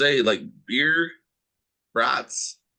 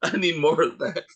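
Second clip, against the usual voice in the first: excited whisper; 5 semitones higher than usual. Retold or imitated. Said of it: "I was like".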